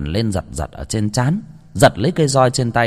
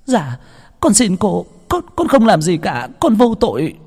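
put-on much higher, pleading girl's cry; desperate pleading; 10 semitones higher, 3 dB louder than usual. A narrator's reading. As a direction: beg for mercy under the whip. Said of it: "đau đớn la hét cầu xin". (giọng van xin thảm thiết, cao vút)

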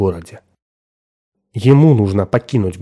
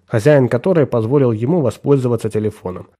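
ordinary delivery, nothing marked

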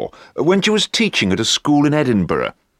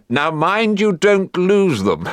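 slow, higher, deliberate warning; mock stern headmaster; 6 semitones higher, slower than usual. Headmaster warning the teacher over two paper clips, slow and mock stern. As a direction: dole each word out like a precious paper clip.

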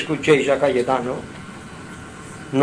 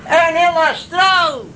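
much higher, louder, slow 'astral'; emphatic; 11 semitones higher, 4 dB louder, slower than usual. Real, not acted. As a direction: proclaim the word 'astral'. Énfasis en el plano astral. (subrayando 'astral', más fuerte)

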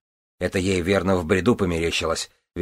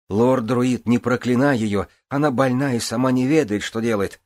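pleading plea; 5 semitones higher, 3 dB louder than usual. Acted. Elaine pleads for the queen.

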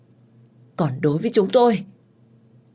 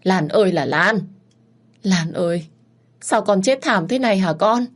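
mournful wailing; 3 semitones higher than usual. Acted. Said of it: "bật khóc oai oán".

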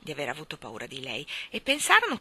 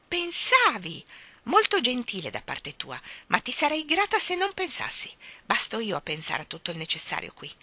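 biting sarcastic crone voice, rising high; terrible low voice; 5 semitones higher than usual. Acted. Old mother scolds her daughter for thinking. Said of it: "con quella voce bassa e terribile".

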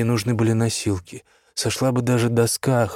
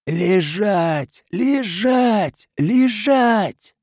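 higher and louder with each repeat; shouted command; 10 semitones higher, 3 dB louder, much slower than usual. Acted. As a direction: bark the order, building each time. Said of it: "Эта команда прорезала мглу".

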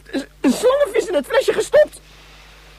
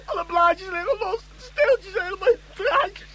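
tearful. Acted. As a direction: grieve over the broken plant. Boy laments the broken gift.

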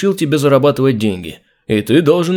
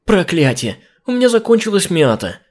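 high call from the kitchen; shouting from the kitchen; from another room; 7 semitones higher than usual. A narrator's reading. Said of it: "прокричала из кухни Джин".

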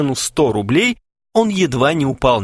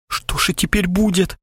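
whisper; 8 semitones higher than usual. A narrator's reading. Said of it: "в ужасе прошептал Харченко".

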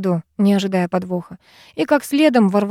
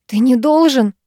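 higher and louder, a scared plea; frightened; 5 semitones higher, 5 dB louder than usual. A narrator's reading. Heroine begging Mikki, lightly frightened. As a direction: plead with him, a little frightened. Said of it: "говорю я испуганно".

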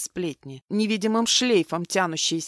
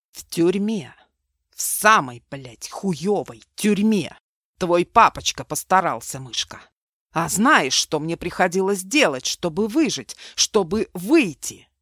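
bitter anger; 5 dB louder than usual. Acted. Mark tells Milena of prison.

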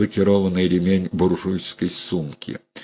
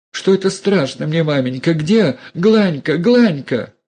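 high, loud panicky call; calling the maid in terror; frightened calling; 9 semitones higher, 4 dB louder than usual. A narrator's reading. (испуганный высокий крик)

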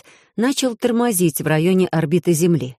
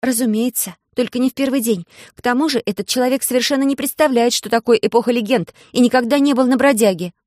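звонкий детский голос, заметно выше; бойко, по-девчачьи; девочка Алиса; 6 semitones higher than usual. Acted. Голос Алисы. (Алиса, высоким детским голосом)

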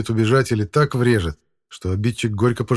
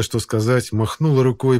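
ordinary delivery, nothing marked

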